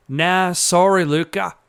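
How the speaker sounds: lightly put-on Australian accent. Joey answering Luca about his missing friend, Australian accent. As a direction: play him with an Australian accent. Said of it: "gave him an Australian accent".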